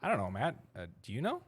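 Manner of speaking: light, friendly rising question; nice rising version. Shown as a demonstration. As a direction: ask it sweetly, tune going up. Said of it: "I could say".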